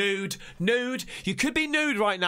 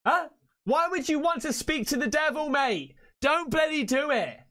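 higher-pitched, incredulous protest; real exasperated disbelief; 5 semitones higher than usual. Real, not acted. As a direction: plead with him to stop. Pleading with man on video.

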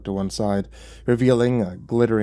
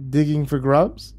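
higher, slow, rising question; somewhat lofty; 5 semitones higher, slower than usual. Acted. Devil watching narrator dig, mildly lofty. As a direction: ask with lofty, teasing disdain. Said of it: "he said, somewhat loftily".

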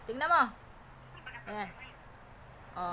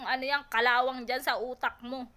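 ordinary talk, nothing marked

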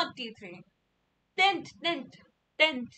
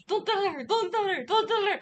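urgent pleading; 4 semitones higher, 4 dB louder than usual. Real, not acted. Begging listeners to keep a secret.

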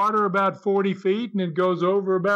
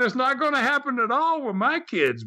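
laughing; 8 semitones higher than usual. Real, not acted. Refusing the shark pool, laughing.

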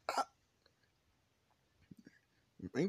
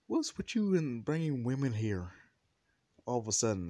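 raised, louder challenge; acted indignant demand; 4 semitones higher, 5 dB louder than usual. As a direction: demand an explanation, mock outraged. Acted quarrel over women.

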